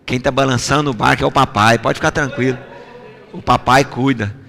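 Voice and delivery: calm the frightened men gently; Jesus quietly comforting the disciples; calm reassurance. Retold or imitated. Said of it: "e Jesus".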